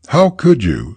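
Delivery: high, tearful reproach; sobbing. Acted. Mother sobbing at her son over his gambling loss. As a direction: sob the question out to your son. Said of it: "sobbed the mother".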